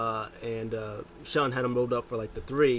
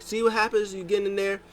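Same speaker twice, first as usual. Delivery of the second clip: higher, louder scolding; mock scolding; 9 semitones higher, 3 dB louder than usual. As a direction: snap at the partner. MVP scolding.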